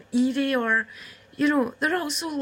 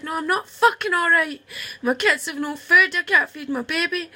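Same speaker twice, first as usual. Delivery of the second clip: higher and louder, reliving the outburst; retold angry outburst; 4 semitones higher, 4 dB louder than usual. Telling her sister what she shouted on the street, angry and louder. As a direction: fling it back at her sister, raw and desperate.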